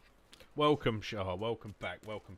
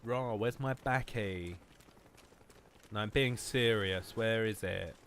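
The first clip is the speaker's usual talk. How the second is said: a hint of a drawling southern English girl accent. Streamer imitating girl hunting for baccy, mock accent. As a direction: lightly mimic a southern English uni girl. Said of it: "that wouldn't sound".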